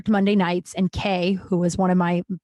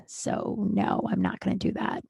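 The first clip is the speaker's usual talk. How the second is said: dismissive refusal; 6 dB quieter than usual. Retold or imitated. Coworker flatly refusing a favor.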